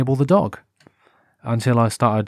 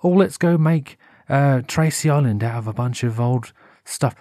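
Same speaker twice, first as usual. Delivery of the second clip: high, slow mock-cheery yay; hammed-up children's TV enthusiasm; gushing mock presenter cheer; hammed-up kids' presenter; 5 semitones higher, slower than usual. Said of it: "energetic youngsters jumping about".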